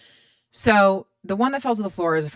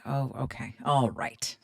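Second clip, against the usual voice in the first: "Oh, okay. All right." whispered and much softer; awkward whisper; 3 semitones lower, 6 dB quieter than usual. Retold or imitated. Awkward reply to rude stylist.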